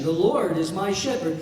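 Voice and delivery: The Lord is my shepherd with my leaned on; stress on my. Shown as a demonstration. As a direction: lean into my, a touch of a laugh. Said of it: "the word my".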